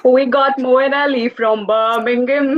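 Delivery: slow, careful copy of Brummie; attempted Birmingham accent. Shown as a demonstration. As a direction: imitate a Birmingham accent, drawing it out. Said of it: "we'll have your Birmingham accents down".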